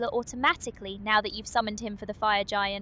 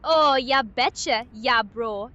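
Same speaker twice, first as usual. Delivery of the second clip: put-on slipped Wisconsin accent; 4 dB louder, slower than usual. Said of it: "My accent slipped a bit there".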